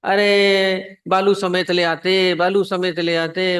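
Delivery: wife shouting. Retold or imitated. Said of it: "अब पत्नी भी जोर से चिल्लाने लगी".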